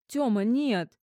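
wife cries out to stop him; alarmed cry. A narrator's reading. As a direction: stop him before he wakes the child.

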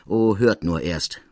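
slow, bitter, wry delivery; bitter smile. Acted. Degré answering Larigny, slow and bitterly wry. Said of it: "mit bitterm Lächeln".

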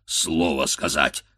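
a hint of a low bear rumble; a touch of bear growl; lightly voiced bear. A narrator's reading. The bear mimicking, lightly growling. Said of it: "ревнул медведь".

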